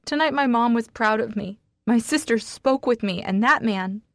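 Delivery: upset and loud; tearful loud outburst. Acted. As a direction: throw it at him through tears. Tearful angry confrontation.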